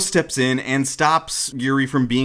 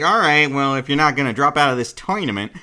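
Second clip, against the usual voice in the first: Ginji's voice; 3 dB louder than usual. Acted. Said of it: "I'm just gonna talk like that".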